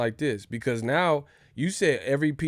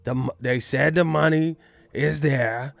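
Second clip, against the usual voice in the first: promoter pitch; 2 semitones higher, 4 dB louder than usual. Retold or imitated. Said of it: "Bob Arum's telling him".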